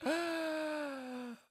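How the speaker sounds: high squeaky put-on opponent voice; high mock voice. Streamer voices his chess opponent, high and mocking. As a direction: squeak it like a gloating rival. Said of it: "And then he's like".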